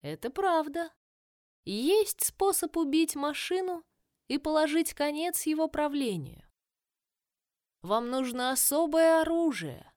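put-on slow, grave old dryad; lightly voiced tree crone; ancient dryad. Dryad voice, held.

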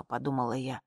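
plain reading voice

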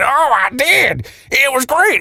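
high, slow mock fan squeal; gushing fan voice. Imagined fan answering, high voice.

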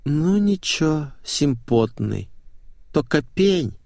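lightly voiced languid pop singer, drawling; lazy starlet. Bored starlet sizes up the guest.

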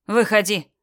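said on an out-breath; exhaled. Acted. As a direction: breathe the word out wearily. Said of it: "На выдохе произнёс Флинт".

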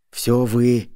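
understated hissed blame; angry hiss. A narrator's reading. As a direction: hiss it at your own family. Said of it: "шипел он на жену и тёщу".

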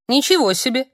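loud, high astonished cry; a child amazed behind her; a girl exclaiming behind Yana, loud and high; ringing exclamation. Acted. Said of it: "звонко сказал кто-то".

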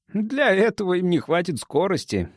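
mildly scornful, pitch lifted; snorting dismissal. A narrator's reading. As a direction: brush the worry off. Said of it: "фыркнул Билка".

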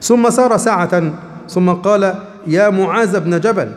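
slow, measured classical Arabic reading; slow solemn narration of the hadith; hadith recitation. Acted.

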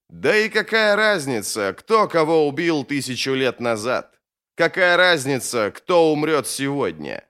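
lightly voiced scornful wizard; dismissive mage. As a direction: wave the question away. Bayaz dismisses the killings.

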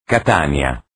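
low, stretched station call; low drawn-out call. Acted. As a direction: stretch the name low and falling. Station name drawn out, falling.

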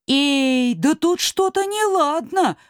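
high, slow, wary call; alarmed exclaim. Acted. Little men enter the yard, high alarmed call. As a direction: sense trouble and call out. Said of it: "воскликнули человечки".

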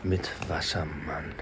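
whisper. Acted. Hushed voice-over line.

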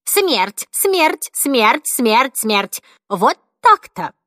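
put-on old woman solemnly proclaiming death; solemn pronouncement. A narrator's reading. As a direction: intone each word like a verdict. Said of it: "торжественно произнесла".

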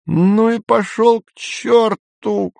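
put-on high, slow drunken shout; drunken yell. A narrator's reading. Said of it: "заорала вдруг Сельма".

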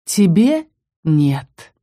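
the darkness soothing her, very slowly; gentle and tender. A narrator's reading. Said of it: "ласково ответила тьма". (ласково и медленно)

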